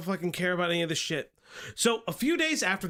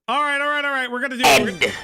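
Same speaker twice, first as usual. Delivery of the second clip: hyped up; 6 semitones higher, 8 dB louder, much faster than usual. Real, not acted. Hyped to start reacting.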